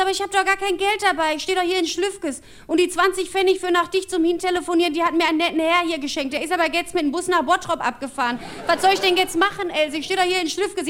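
put-on high, complaining old-lady voice; helpless grandma. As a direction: plead down the phone as a stranded granny. Grandma pleading helplessly on phone.

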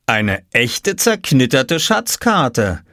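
slow, marvelling delight; slow, mildly awed father; amazed. Acted. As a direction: savour each word in wonder. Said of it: "sagte Papa staunend".

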